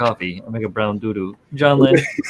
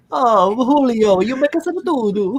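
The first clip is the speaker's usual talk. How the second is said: put-on baby talk; 10 semitones higher than usual. Teasing baby talk about doo-doo.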